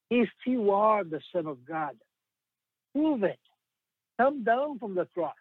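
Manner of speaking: mocking challenge that jumps up high on prove it; a light mocking tempter's dare; taunting if voice. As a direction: sneer the dare up at the cross. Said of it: "use the same if voice".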